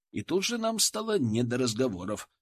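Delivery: ordinary delivery, nothing marked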